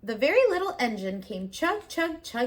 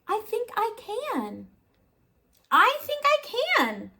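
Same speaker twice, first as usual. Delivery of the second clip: little engine rising to a high determined cry; rising resolve; 11 semitones higher than usual. A narrator's reading. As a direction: grow bolder with each repeat.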